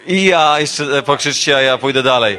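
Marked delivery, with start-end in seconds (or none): 0.1-0.6 laughing high bray of I ja; donkey bray. Retold or imitated. Preacher brays like the donkey, laughing.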